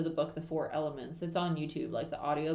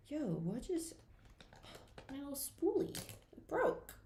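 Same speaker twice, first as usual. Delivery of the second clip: startled squeak; 8 semitones higher, 4 dB quieter, slower than usual. Real, not acted. Spoolie breaks mid-talk.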